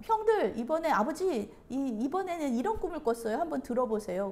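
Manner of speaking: high, loud opening call to family; lightly acted boy bursting to share; eager announcement. Joseph eagerly announces another dream.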